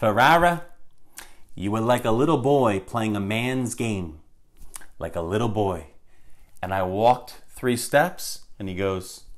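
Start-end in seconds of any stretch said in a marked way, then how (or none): 0.0-5.9 put-on New York Bronx accent. Retelling what Fred said to him as a college baseball player, imitating Fred's Bronx accent. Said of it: "with his Bronx accent".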